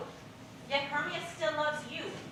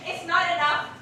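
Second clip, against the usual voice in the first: angry protest; 4 semitones higher, 7 dB louder than usual. Acted. Helena's rising anger, repeated phrase.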